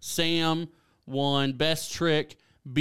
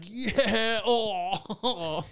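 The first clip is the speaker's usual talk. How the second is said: hyped cheer; 7 semitones higher than usual. Retold or imitated. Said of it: "where we'd get hyped".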